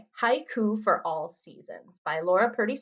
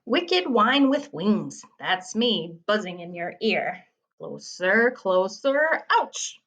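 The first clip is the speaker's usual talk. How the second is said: dramatic poem reading; slower than usual. Acted. Teacher acts out a buzzing insect riddle, dramatic poem reading. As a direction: creep closer, then yelp the last word. Reads a haiku aloud.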